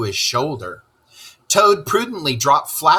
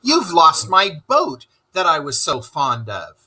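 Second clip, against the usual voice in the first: cross; 7 semitones higher than usual. Acted. Rat scolds Toad about the lost boat, high and cross. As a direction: scold him, pitch jumping high. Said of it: "said the rat very crossly".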